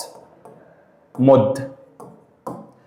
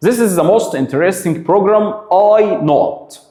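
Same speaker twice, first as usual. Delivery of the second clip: slow model sentence; 5 semitones higher, much slower than usual. Shown as a demonstration. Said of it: "teacher models example".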